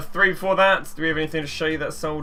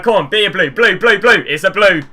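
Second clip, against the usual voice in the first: louder and higher, chanting blue, blue, blue; willing the card to be blue; excited pleading; 6 semitones higher, 10 dB louder than usual. Real, not acted. Begging pack for a blue.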